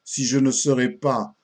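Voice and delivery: measured, lively recital of comic verse; an old comic poem read aloud with theatrical relish; poem recitation. Acted. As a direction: recite it line by line with marked pauses.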